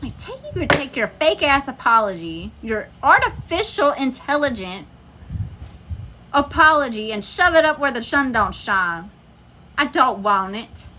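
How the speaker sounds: scornful tell-off. Real, not acted. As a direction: shove it back at them with scorn. Telling off fake apologizer.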